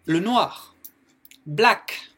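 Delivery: "black" called out loud and high; teacher's clear model. Shown as a demonstration. A teacher models the color words loudly for the class. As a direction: announce "le noir, black" clearly. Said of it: "Donc, black".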